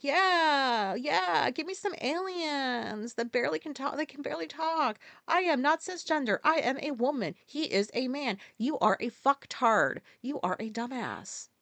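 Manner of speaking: mocking voters who cheer the politicians, sneering. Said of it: "these motherfuckers are like".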